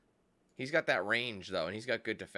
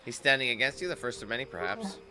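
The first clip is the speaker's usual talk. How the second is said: often higher, haughty chieftain read; lightly voiced proud alien chief; scheming Wookiee chieftain; 7 semitones higher, 3 dB louder than usual. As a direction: lord it over your exiled brother. Voices Chundar in game scene.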